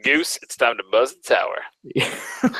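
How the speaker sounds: slow, drawn-out cockpit radio call; slow fighter-pilot line over the radio; Top Gun radio call. Shown as a demonstration. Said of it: "I want you to say".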